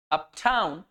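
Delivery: uptown with light "up", stretched "town"; stress on second syllable. Shown as a demonstration. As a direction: lean on the "town" of uptown, letting it fall. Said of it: "यहाँ पर ये unstressed है, ये stressed है". (uptown में "town" पर ज़ोर, "up" हल्का)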